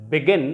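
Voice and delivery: begin, weak first syllable and strong second; stress on second syllable. Shown as a demonstration. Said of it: "second syllable पे stress थी".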